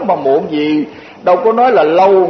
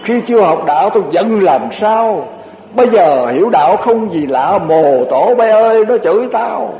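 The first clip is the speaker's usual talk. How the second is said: put-on old lady's verse. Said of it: "bà dịch ra cái kiểu của bà".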